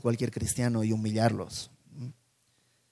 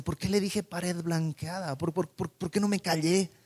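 lightly voiced Paul, higher, scolding himself in a rush; Paul berating himself; 5 semitones higher than usual. Paul in his cell, regretting his speech, mild self-reproach. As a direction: replay the mistake, exasperated with yourself. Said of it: "Yo imagino ahí diciendo".

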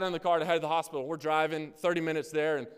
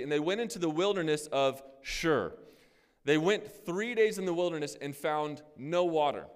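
raised, measured reading voice; scripture reading. Acted. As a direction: read the passage with weight, a bit slow. Reads scripture aloud.

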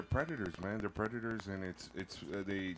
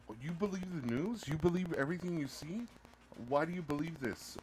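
higher-pitched challenging questions; mock skepticism; 5 semitones higher than usual. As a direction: imitate a scoffing doubter. Voices people doubting the news.

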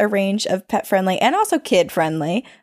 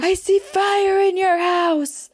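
a hint of an eerie old woman, slow and much higher; old woman yelling; 8 semitones higher, slower than usual. Neighbor woman warning mom of fire, lightly voiced and slow. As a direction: stretch each word like a creepy prophecy.

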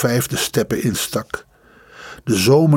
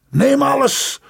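wild high shout, much higher; 13 semitones higher than usual. Acted. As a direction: fling it out like a man gone mad. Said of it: "schreeuwde hij".

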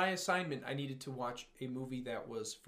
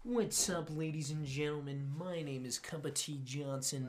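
mock web-show host intro; lightly hammed-up presenter greeting; Keemstar. Friend parodying a YouTuber's show opening, mock host voice. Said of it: "Killer Keemstar".

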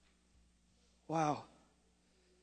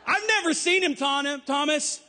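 laughing, higher, amused; 6 semitones higher, slower than usual. Real, not acted. Preacher amused comparing himself to Thomas, laughing.

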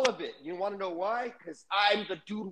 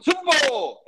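mock fan shout; 7 semitones higher, 6 dB louder than usual. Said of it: "sitting there going".

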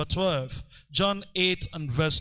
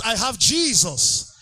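louder chanted call, "I have Jesus" punched each time; shouted declaration; 3 semitones higher, 4 dB louder than usual. Shown as a demonstration. Preacher leading the congregation in a louder shouted declaration. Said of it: "Shout it".

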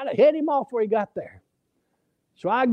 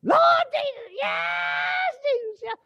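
much higher, ecstatic shouted praise; church shout; slower than usual. Retold or imitated. Preacher imitating a sister shouting praise, ecstatic high shout. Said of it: "You were shouting".

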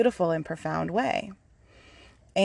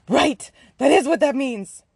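rueful realisation; 4 semitones higher, 4 dB louder, slower than usual. Real, not acted. Resigned realisation.

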